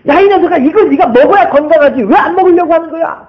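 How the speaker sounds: put-on a parent scolding a child who won't eat; playful mock scolding of a picky child. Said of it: "화가 나요".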